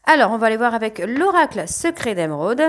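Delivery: cracking, rough voice. Real, not acted. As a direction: voice cracking mid-sentence. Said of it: "un peu la voix qui part en, en vrille".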